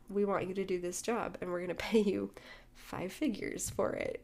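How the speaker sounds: whispered, slowing on the big news; hushed whisper. Retold or imitated. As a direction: let it drop to a secret whisper. Retold job offer, hushed for effect.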